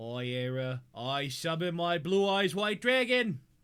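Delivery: loud Brooklyn accent. Playing Yu-Gi-Oh and summoning a dragon card: Brooklyn accent sliding into JFK. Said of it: "my Brooklyn accent always then it goes into a JFK".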